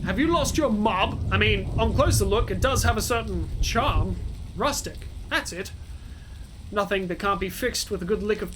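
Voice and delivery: lightly voiced NPC; character voice. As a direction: keep the NPC voice going, casual. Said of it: "doing a different voice".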